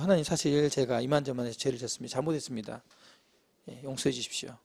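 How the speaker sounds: low, softened acted confession; humble confession. Preacher models how Adam should have answered God, humble confession. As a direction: own up meekly, voice dropping away. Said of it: "이렇게 이제 잘못을 고백을 해야 되는데".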